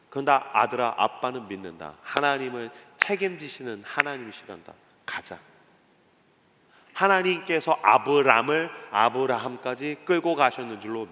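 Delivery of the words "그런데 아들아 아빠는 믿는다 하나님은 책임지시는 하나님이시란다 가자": low, hushed fatherly voice; tender assurance. Acted. Abraham assuring his son of his faith, low and tender. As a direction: drop low and soft, sinking to near silence.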